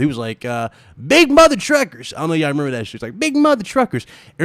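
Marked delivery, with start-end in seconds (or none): 1.1-2.1 high-pitched mock redneck twang. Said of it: "in the most redneck voice ever". 3.2-4.1 high-pitched mock redneck twang. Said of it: "in the most redneck voice ever".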